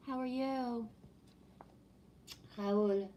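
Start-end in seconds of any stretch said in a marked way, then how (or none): 2.6-3.1 French accent. Shown as a demonstration. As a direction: say Raoul the French way, a mild French accent. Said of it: "That's how I would say it with my French accent".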